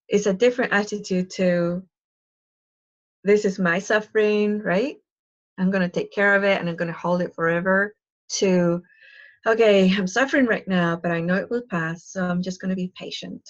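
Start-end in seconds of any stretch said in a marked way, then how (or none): 3.2-8.0 lightly acted possessive take, quicker at the end; clinging to suffering. Shown as a demonstration. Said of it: "Do you see the difference?". 9.5-13.4 patient acceptance. Shown as a demonstration. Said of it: "Do you see the difference?".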